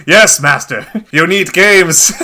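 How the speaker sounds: playing a groveling servant, half laughing; mock servant. Cohost pretending to bow to the publisher, mock servile. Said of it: "I'm sitting like".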